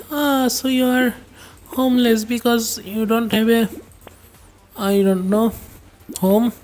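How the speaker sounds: a hammed-up snooty busybody; mocking imitation. Mimicking people who call him homeless.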